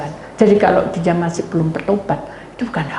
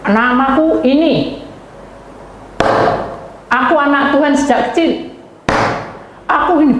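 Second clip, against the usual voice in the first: arrogant boasting; 7 semitones higher than usual. Retold or imitated. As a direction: imitate someone proudly announcing who they are. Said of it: "dia mulai arogan". (sesumbar arogan dengan suara lantang)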